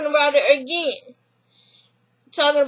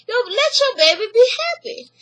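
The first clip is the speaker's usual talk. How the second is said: high, pleading sister voice; 9 semitones higher than usual. Retold or imitated. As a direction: coax her, pitched up.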